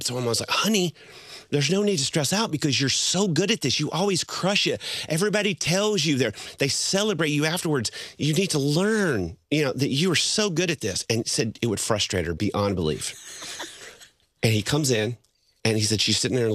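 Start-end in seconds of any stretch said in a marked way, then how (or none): 0.5-11.0 higher-pitched, emphatic pep talk; retold encouraging reassurance. Husband to stressed wife before her conference, retold insistent encouragement.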